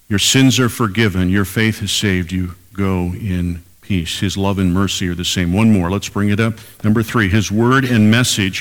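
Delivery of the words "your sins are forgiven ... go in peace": tender blessing. Shown as a demonstration. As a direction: lay each word down gently like a benediction. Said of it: "Twelve words that changed her life".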